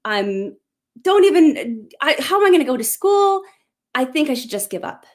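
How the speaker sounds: mother retelling her crying daughter's outburst, mock distraught cry; retold distraught scream. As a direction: replay the daughter's despair, half acted. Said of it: "she screams out".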